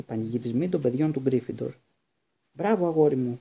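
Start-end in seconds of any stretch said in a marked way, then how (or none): 2.5-3.4 cheering shout. A narrator's reading. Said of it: "φώναζε ο Γουντ".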